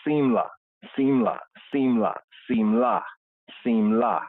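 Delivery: simla said with a clear open ah ending; SIM-lah, ending on a broad ah; Hebrew word. Shown as a demonstration. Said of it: "the word for raiment is".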